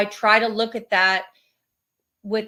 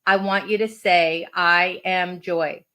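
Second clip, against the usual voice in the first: measured, deliberate quote reading; unhurried reading with space between phrases; inspirational reading. Acted. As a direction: read it out as a gentle affirmation lesson.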